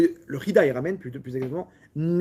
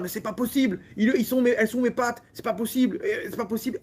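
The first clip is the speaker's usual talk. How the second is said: lightly acted complaint, each phrase falling; imitated French grumbling; 4 semitones higher than usual. Teacher mimics the French complaining all the time, mild mock grumbling. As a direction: mildly mimic a habitual complainer. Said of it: "imiter les Français en train de râler".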